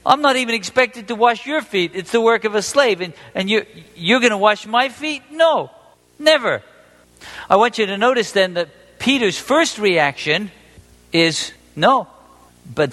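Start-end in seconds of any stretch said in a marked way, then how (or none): 0.1-6.6 incredulous protest. Acted. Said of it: "He's saying".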